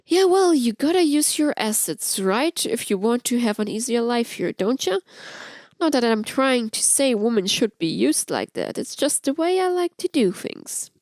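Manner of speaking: lightly voiced flirt sharing gossip; Amora's voice. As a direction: tease with a sly edge.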